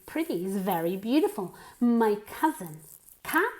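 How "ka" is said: first syllable "ka" alone, open ah, pitched up. Shown as a demonstration. Teacher breaking "Cousin" up for learners, open-A first syllable. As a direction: say only the "Cou" of "Cousin" as a short "kah". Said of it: "como si fuera una A".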